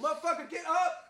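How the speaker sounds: re-enacted angry yelling at normal volume; angry command. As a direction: order him up in a strained, high voice. Re-enacts ordering drunk man up.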